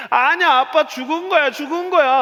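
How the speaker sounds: put-on high-pitched, loud kid insistence; imitated stubborn child. Daughter argues with dad about the tree, imitated stubborn child. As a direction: keep protesting in a small child's high voice.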